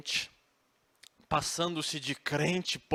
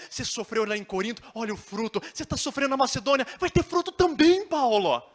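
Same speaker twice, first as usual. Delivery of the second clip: starts fast and loud, climbs much higher and louder; eager encouragement swelling into a shout; Tito's rising plea, building to a shout; 7 semitones higher, 7 dB louder than usual. Acted. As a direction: urge Paulo on harder and harder. Tito pleads with Paulo, building.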